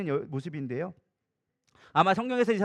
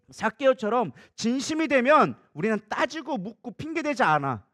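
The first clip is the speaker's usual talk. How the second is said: normal talking voice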